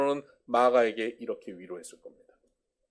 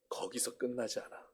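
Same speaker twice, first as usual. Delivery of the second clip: whisper; 11 dB quieter than usual. Acted. Confiding secret to Mark.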